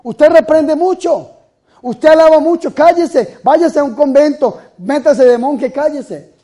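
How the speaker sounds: high, loud imitation of nagging critics; mock scolding critics. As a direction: scold the priest for being too loud. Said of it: "a mí me dicen cada ratico".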